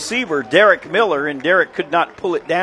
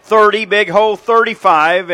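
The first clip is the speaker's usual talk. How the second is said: louder, higher count of the yard lines; excited play-by-play; 4 semitones higher, 5 dB louder than usual. Real, not acted. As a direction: call the runner's progress as it happens. Live call of kickoff return.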